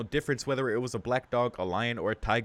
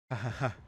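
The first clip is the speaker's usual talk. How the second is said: short laugh; 3 semitones higher than usual. Acted. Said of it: "I laugh out".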